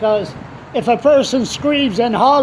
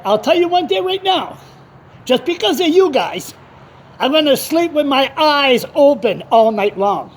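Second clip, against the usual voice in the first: retold indignant retort; 4 semitones higher than usual. Acted retort to the caller.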